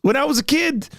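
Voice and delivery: Joe Biden impression. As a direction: fumble the names like a rambling elderly president. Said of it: "Can you really like him?".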